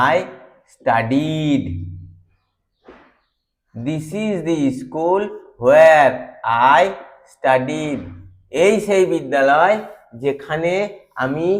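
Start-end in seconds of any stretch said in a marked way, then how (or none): 3.7-8.0 slow, "the" stressed as "thee"; emphatic "thee". Shown as a demonstration. Teacher showing emphatic "the" for an old school. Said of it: "ট্রেস দিয়ে বোঝানোর জন্য".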